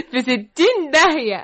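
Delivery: laughing. Acted. Glad the maid is gone.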